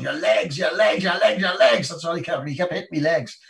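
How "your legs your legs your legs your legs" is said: frantic, higher-pitched repeated urging; losing it. Retold or imitated. Frantic coach drilling his boxer before the final, losing it. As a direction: imitate a coach in a panic, voice pitched up. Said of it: "the only time he lost it".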